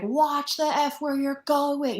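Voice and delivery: slow, lightly voiced snap at a stranger; New Yorker telling off a stranger who bumped him, mild mock anger; mock tough New Yorker. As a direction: play a gruff East Coaster brushing someone off. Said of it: "turn around and be like".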